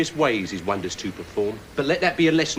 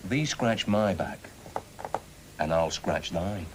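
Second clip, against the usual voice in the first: put-on slow, broad Yorkshire with old thee and thine; drawn-out Yorkshire folksiness; mock Yorkshire; 5 semitones lower, 6 dB quieter, slower than usual. Offering the knight a deal in slow mock Yorkshire. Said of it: "this Yorkshire gobbledygook".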